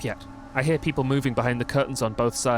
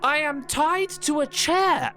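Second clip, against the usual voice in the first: exasperated captive; 10 semitones higher, slower than usual. Acted. Captured character protests.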